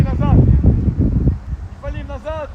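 loud, drawn-out coaching call. Real, not acted. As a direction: shout the warning across the pitch. Coach calling out to players. (громкий крик тренера)

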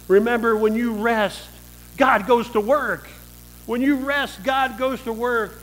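emphatic preaching. Real, not acted. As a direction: drive the point home. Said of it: "emphatic punchline".

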